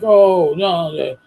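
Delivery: gruff, dismissive grognard voice; mocking grognard. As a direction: sneer it like a stubborn old-timer. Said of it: "old school grognards is like".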